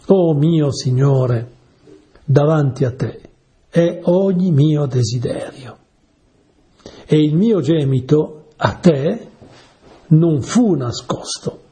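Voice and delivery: slow, drawn-out Oh of prayer; prayerful invocation. Acted. Preacher voices the psalmist praying to God, slow and reverent. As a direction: call on the Lord slowly and reverently.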